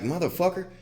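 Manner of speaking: imitating himself about to fight; retold snarl. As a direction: spit it at him.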